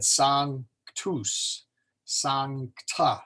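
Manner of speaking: SANCTUS and SANCTA slowly broken, "sanc-tus, sanc-ta" with the cluster divided; Latin syllable split. Shown as a demonstration. Teacher recalling the sung Mass, "Sanctus, Sancta" in slow split syllables. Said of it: "that's exactly what we did".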